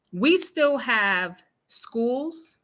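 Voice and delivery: each word dragged out and weighted; 1 slow emphatic. Real, not acted. To viewers about racist schools, slow emphatic words. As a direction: stress it slowly like disbelief.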